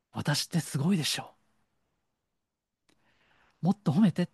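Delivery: a hint of a show-off child begging for praise; mock childish boast. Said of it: "非常に子供じみた". (軽く子供っぽく自慢する声)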